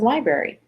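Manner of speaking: "library" said as "lie-berry"; mispronounced library. Retold or imitated. What her kids heard, "library" as "lie-berry". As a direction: drop the R after B in "library". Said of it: "all they ever heard was".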